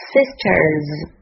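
"Sisters" on its own, carefully drawn out; pronunciation demo. Shown as a demonstration. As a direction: model "Sisters" slowly for learners. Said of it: "现在我们来看看发音的部分".

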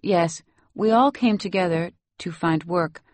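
lightly voiced Salvadoran nanny; Salvadoran accent. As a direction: tell it in Salvadoran-accented English. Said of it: "You have such a nice accent".

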